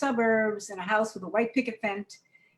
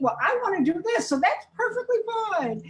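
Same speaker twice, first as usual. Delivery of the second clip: put-on higher, carefree little-kid voice; imitating a five-year-old; 10 semitones higher, 3 dB louder than usual. Teacher describes her pupils, imitating a carefree five-year-old. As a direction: play the self-centred kindergartner. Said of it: "they think".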